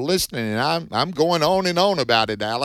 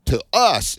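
to us lifted higher and louder; emphasis on to us; 6 semitones higher, 5 dB louder than usual. Shown as a demonstration. Host reading the verse on air, emphasizing to us. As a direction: punch out to us as the key words. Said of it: "I'm emphasizing this".

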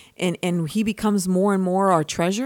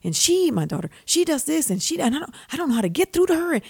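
retold exasperated venting, pitch climbing; worked-up mock complaint; 6 semitones higher than usual. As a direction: vent to a friend, higher and hurried toward the end. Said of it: "I was venting".

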